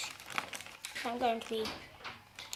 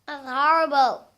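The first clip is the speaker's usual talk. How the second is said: disgusted; 8 dB louder than usual. Real, not acted. Disgusted by the sweet.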